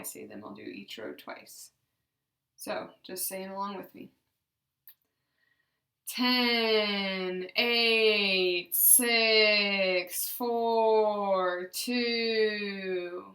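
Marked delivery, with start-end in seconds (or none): 6.1-13.2 loud, even counting with no harsh stops; counting drill, loud and even; smooth, above conversational. Shown as a demonstration. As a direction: count down smoothly and strongly in one steady voice. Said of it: "a little bit above conversational speech".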